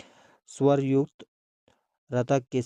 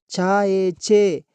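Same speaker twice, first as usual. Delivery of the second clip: पाओ पो stretched long and a bit louder; drawn out slowly; 3 semitones higher, 4 dB louder, much slower than usual. Shown as a demonstration. Teacher drawing out पाओ पो slowly for young readers. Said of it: "teacher spelling out syllables".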